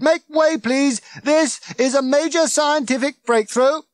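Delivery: loud, high megaphone orders; officious bellow at full pitch; bawling. A narrator's reading. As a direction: shout bossily over a crowd. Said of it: "bawling at the crowd through it".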